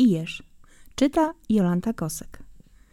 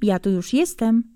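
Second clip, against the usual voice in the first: wife's greeting; 2 semitones higher than usual. Acted. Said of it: "wita go pani Jeżowa tymi słowy".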